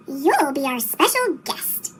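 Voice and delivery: slow, low, sly hiss. Acted. Diesel luring Percy, slow low hiss. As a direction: hiss it slowly like a sly invitation. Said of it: "he hissed".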